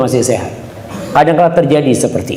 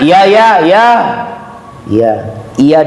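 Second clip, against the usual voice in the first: unpleasant tone; 2 semitones higher, slower than usual. Acted. Son brushing off his old mother, impatient and curt. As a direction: snap back dismissively at your mother. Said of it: "intonasi yang tidak mengenakkan".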